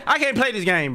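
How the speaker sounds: yelling the complaint; loud yelled complaint. Real, not acted. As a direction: shout it, fed up. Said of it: "I'm screaming at everything".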